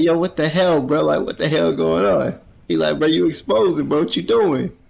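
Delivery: mock shocked outburst. Denji reacting to the teacher in a hammed-up shocked yell. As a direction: ham up the shock, bro. Boy's outraged quote voiced.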